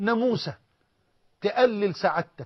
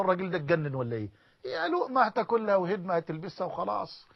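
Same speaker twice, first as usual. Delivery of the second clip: mocking onlookers; 5 dB quieter than usual. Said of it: "الناس يقولوا".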